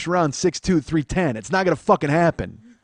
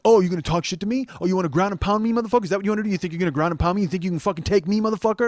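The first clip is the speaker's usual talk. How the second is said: a hint of a higher challenging taunt; mock aggressive taunt; 5 semitones higher, faster than usual. Little man challenging the comic, mildly higher. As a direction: taunt him like a small yapping guy. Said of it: "And he goes".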